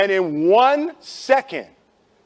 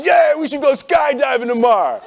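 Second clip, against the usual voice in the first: tipsy friend; 6 semitones higher, 3 dB louder than usual. Retold or imitated. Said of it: "somebody says".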